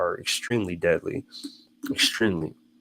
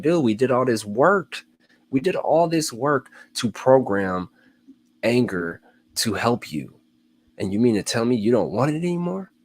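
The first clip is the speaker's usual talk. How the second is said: body voiced as an offended buddy, higher; body's voice; 5 semitones higher, 4 dB louder than usual. The body scolding its owner, mock offended. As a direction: complain like your body is betrayed. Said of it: "Your body's pissed".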